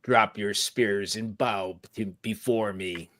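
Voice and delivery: slow, commanding demon queen; lightly voiced demanding goddess; she demon. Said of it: "costume of a she demon".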